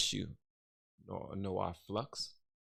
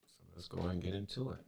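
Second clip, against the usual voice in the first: glitchy robotic stream audio; metallic, distorted mic sound; 5 dB quieter than usual. Real, not acted. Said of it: "You sound robotic".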